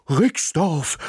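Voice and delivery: dog Ismir repeats the answer, excited bark. A narrator's reading. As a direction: bark the name back, thrilled. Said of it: "bellte Ismir aufgeregt".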